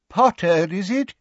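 put-on high, wavering elderly professor; quavery old man. A narrator's reading. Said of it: "in his quavery old voice".

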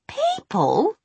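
high, scornful witch shriek; spat scornfully. Acted. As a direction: spit the word in contempt. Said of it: "Missus Dark spat".

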